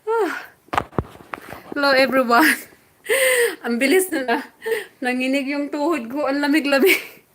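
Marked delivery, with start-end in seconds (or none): 3.1-7.2 shivery laughing. Real, not acted. Nanginig yung tuhod ko.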